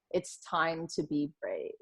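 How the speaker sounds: soft whisper. Real, not acted. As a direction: whisper it close and intimate. Closing message to listeners.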